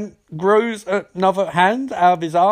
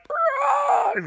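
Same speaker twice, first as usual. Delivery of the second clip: mock deadpan bruh; 4 dB quieter than usual. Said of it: "Simon's like".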